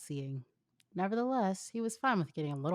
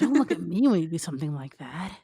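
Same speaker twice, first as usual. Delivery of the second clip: exasperated; 9 dB louder than usual. Acted. Annoyed Shikamaru.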